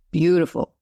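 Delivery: hard audible exhale; blowing out hard. Real, not acted. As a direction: blow the breath out hard. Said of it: "and blow out hard".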